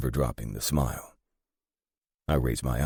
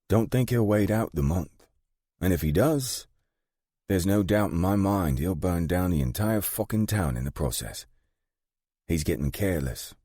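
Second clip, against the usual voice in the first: higher-voiced woman boss giving a grave warning; British gang boss, foreboding; 5 semitones higher than usual. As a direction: warn of the coming war in Margaret's higher voice.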